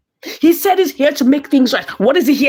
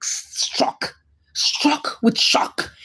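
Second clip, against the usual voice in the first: breathless shock; 6 dB quieter, much slower than usual. A narrator's reading. Describing the shock.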